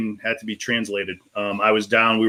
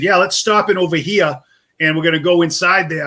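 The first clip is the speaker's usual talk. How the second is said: put-on New England accent; 3 semitones higher than usual. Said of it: "how much of an accent you have".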